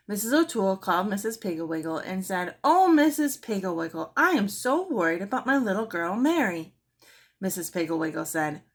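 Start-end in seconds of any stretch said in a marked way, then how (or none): 2.6-6.8 worried mother. Acted. Worried mother calls for help.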